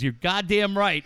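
retold hearty, emphatic agreement. Canadian coworker agreeing with the joke, emphatic. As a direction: agree firmly, imitating a delighted buddy.

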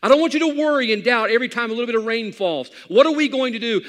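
lightly voiced God promising to keep his word; preacher voicing God's rainbow promise. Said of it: "God says".

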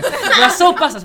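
high, loud laugh through the words; laughing high and slow. Real, not acted. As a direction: laugh it out while telling. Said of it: "wallah, jag grät".

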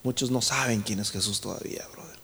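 hushed, low whisper; very soft, whispery remark; whispered aside. Real, not acted. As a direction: confide it to the congregation under your breath. Confiding aside after shouted preaching.

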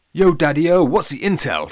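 loud, high hip hello; cool greeting. A narrator's reading. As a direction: greet Dad like a secret agent. Alex greeting dad spy-style.

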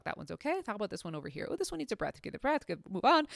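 quiet self-talk while checking; softly narrating own checks; muttering to herself. Retold or imitated. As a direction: murmur it under your breath, busy. Retelling checking dogs quietly.

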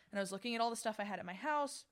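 words cut by a burp. Real, not acted. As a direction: talk through a burp. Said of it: "Sorry, that's a burp".

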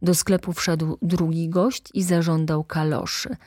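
ordinary delivery, nothing marked

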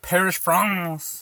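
slow, drawn-out French-style vowels; playful French pronunciation; mock French accent. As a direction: stretch it into a put-on French accent. Echoes French hometown in mock accent.

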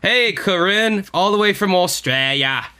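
put-on drawn-out Australian accent greeting; slow, put-on Australian twang; bad Australian accent. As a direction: hail a listener in a hammy Australian accent. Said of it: "whenever I do an Australian accent".

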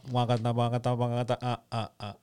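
mouthed reggae rhythm, fading out; beatbox a rhythm, then let it die away; imitated reggae sounds. Attempting two sounds at once, fading mouthed rhythm. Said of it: "more than one sound at a time".

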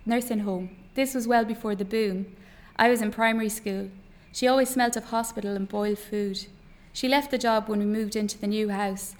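author reading fiction aloud, measured pauses; story narration. A narrator's reading. Author reads an extract to an interview audience, story narration.

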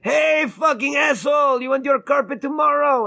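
hammed-up rude carpet installer; mock installer. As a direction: bark it like a rude tradesman. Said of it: "and he'd go".

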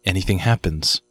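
unhurried scene-setting with long pauses; game master narration. Acted. Game master describing the empty room, paced for suspense.

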